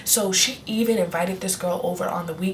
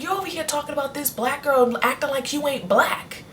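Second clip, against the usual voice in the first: mom scolding; 7 semitones higher than usual. Retold or imitated. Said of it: "She's like".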